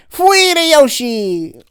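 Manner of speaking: high, slow, squeaky dog voice; cartoon dog. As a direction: voice the dog begging for food. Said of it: "I'm like".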